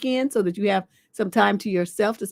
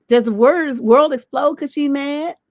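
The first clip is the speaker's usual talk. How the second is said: scornful, slow, louder; 4 semitones higher, 6 dB louder, slower than usual. Real, not acted. Scornful rhetorical question to caller.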